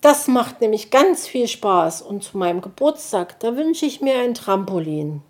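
eifrige Kinderstimme, hoch; ohne Punkt und Komma. Acted. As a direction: plapper begeistert drauflos. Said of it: "ohne Punkt und Komma". (Borstel plappert ohne Pause)

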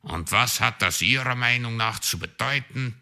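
a touch of grumpy growl; mild growl. A narrator's reading. Raven grumbles at the magpie, mild growl. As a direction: grumble it at her. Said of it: "knurrte der Rabe".

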